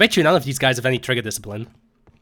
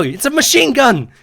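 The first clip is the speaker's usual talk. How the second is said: quoting a video; 12 semitones higher, 6 dB louder than usual. Retold or imitated. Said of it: "like that fucking video".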